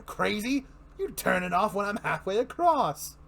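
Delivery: Joker telling joke. Acted. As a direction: spin the joke with relish. Joker tells joke in reading.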